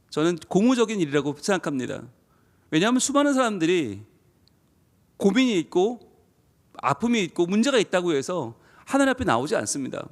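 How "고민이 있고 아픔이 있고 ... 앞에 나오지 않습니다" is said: normal talking voice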